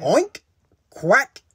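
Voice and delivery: high oink, quack and bleat; one animal voice after another; farm animal noises. A narrator's reading. Animals jumping in for a ride, high calls. Animals call out aboard truck.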